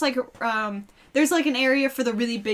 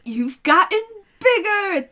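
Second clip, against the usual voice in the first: awkward dad; 8 semitones higher, 3 dB louder, slower than usual. Acted. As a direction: voice lifts high on bigger. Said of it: "He's like".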